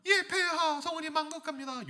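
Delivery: hammed-up submissive servant; obedient subject. Woman thanking the king for his favour, high and fawning.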